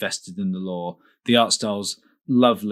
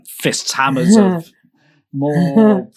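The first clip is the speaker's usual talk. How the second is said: excited; 8 semitones higher, 8 dB louder, much slower than usual. Real, not acted. Excited listing of boons.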